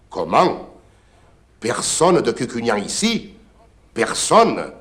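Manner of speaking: loud startled Comment?; shocked disbelief. Acted. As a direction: cry out in disbelief. The curé is shocked.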